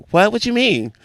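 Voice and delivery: high-pitched mock disbelief; mimicked baffled friend. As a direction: ask it high, imitating her surprise. Acts friend's shocked reply.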